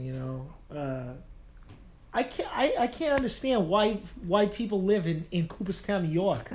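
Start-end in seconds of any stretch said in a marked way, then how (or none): 2.1-6.5 imitating a coworker's New York accent, pitched higher; playful New York accent impression, retelling his complaint. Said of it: "in his little accent".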